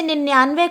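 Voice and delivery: निन्यानवे with a long nn and a y-glide, ninn-yaanve; wrong pronunciation. Shown as a demonstration. Teacher quotes the students' error, mispronounced with a y-glide. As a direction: sound a clear 'ya' in निन्यानवे. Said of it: "ना कि निन्यानवे कहते हैं".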